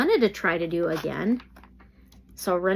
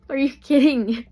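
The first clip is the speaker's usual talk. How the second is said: surprised disbelief; 5 semitones higher, 7 dB louder than usual. Real, not acted. Reacting to drawn tarot cards.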